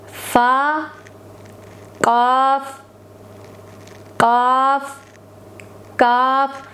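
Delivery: slow letter-by-letter recitation of the alphabet; reciting Arabic letters. Shown as a demonstration. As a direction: say each letter alone, clearly, with a pause. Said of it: "आज हम सिर्फ हुरूफ की अदायगी करेंगे". (अरबी हुरूफ़ की धीमी, साफ़ अदायगी)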